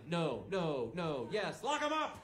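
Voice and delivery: building to a high shout on lock 'em up; mock verdicts. Comic playing the mind-reader at the line-up, rising to a shout. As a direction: play the lie detector, then yell the last call. Mock judge picking out pedophiles.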